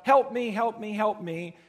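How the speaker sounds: calling out for help by the roadside, lightly voiced; beggar crying out. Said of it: "he would cry out".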